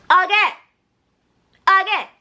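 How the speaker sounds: can't believe it happened; exasperated. Real, not acted. Mock outrage at repeated phone call.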